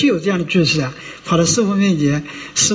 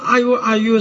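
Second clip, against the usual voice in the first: mock groan; 4 semitones higher than usual. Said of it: "他呢".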